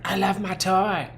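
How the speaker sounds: put-on high, slow squealy baby voice.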